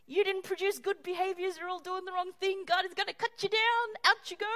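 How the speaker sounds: self-righteous tirade building up; gloating condemnation. Retold or imitated. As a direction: pronounce their doom with relish. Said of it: "they're saying".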